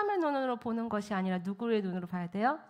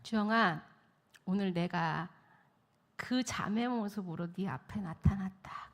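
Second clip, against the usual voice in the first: low, measured, paused delivery; God speaking gently; 3 semitones lower, 5 dB quieter than usual. Retold or imitated. God to weary helper in prayer, calm measured voice. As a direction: speak slowly and calmly as God to a follower. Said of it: "하나님이 오늘 읽은 이 말씀을 딱 주시는".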